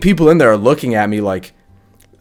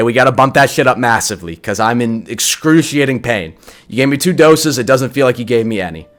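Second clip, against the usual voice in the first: insistent demand. Retold or imitated. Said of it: "in the nicest way trying to tell".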